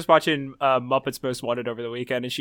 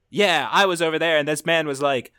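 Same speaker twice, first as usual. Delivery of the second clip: John Mulaney impression; 3 dB louder than usual. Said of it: "an impression of John Mulaney".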